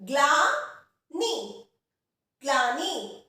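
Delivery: ग्लानी slowly, ग and ल fused in ग्ला; slow careful pronunciation. Shown as a demonstration. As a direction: say ग्लानी very slowly, ग्ल joined. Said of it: "इसका उच्चारण भी ध्यान से देखेंगे". (धीरे से ग्लानी, ग्ल एक साथ)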